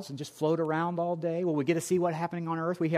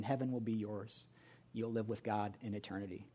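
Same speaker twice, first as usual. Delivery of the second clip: gentle altar call; 3 semitones lower than usual. Acted.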